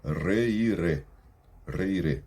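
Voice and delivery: Reiré with tapped Spanish r sounds. Shown as a demonstration. Teacher drilling the R for students, slow careful demo. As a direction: roll the r in reiré deliberately. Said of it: "olha os sons do R".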